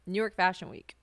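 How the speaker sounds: ordinary talk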